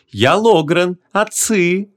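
high, honeyed, self-assured voice; smug sweet-talker. A narrator's reading. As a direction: introduce yourself grandly in a sugary high voice. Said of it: "ухмыльнулся Логран сладкоречивый". (самодовольный высокий слащавый голос)

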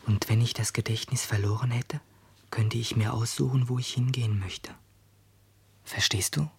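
pondering whisper; a boy whispering his idea to a girl. Acted. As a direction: muse in a breathy hush. Whispers throughout.

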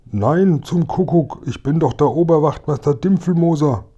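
high-pitched, exasperated protest; indignant captive. Acted. Policeman taken for the robber protests to Kasperl, indignant. Mistaken prisoner protests his identity.

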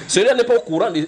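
can't hold back the laugh; real laughter spilling into speech. Real, not acted. Laughing at the story.

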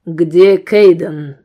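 slow heavy demand. Acted. Gunman demanding where her brother is. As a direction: press each word. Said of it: "требовательно спросил стрелок".

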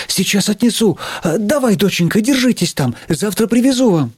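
high-pitched, bustling phone voice; reassuring mother. Acted. Teacher telling доченька to hold on, reassuring. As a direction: soothe a daughter, chattering on.

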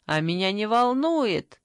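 plain reading voice

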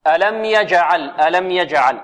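slow, deliberate tajweed recitation; careful teaching recitation; model recitation. Shown as a demonstration. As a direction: recite each sound distinctly for students. Teacher models verse words slowly.

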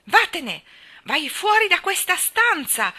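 high, loud, drawn-out screaming order; furious yell. A narrator's reading. Colin throws Mary out, yelling. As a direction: bellow them out of the room. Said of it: "urlò".

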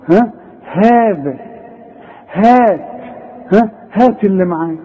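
ها and هات said casually and lightly; everyday speech. Shown as a demonstration. Teacher compares everyday ها to the recited one. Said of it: "ها ولا ها".

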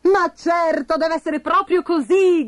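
excited cry. Acted. Bastoncello grasping the answer, high excited cry. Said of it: "gridò Bastoncello".

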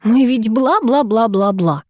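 slow, drawn-out teasing parody; singsong mock of her ex's droning; mocking mimicry. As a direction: mimic him with a sneer. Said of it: "передразнила я".

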